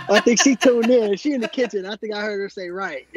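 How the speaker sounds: giggling while he speaks, amused that she overheard; laughing. Real, not acted. Laughing that his wife overheard.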